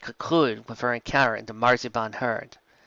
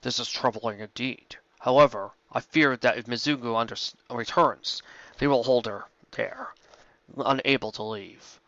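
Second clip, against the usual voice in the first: a calm, measured dragon, close to the narrator's own voice; lightly voiced dragon. Dragon Smog greeting Rainbow Dash, lightly voiced and calm. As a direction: play the courteous old dragon, barely changing the voice.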